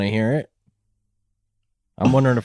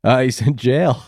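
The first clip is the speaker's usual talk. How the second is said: blurted shout. Acted. Playing the character, shouted.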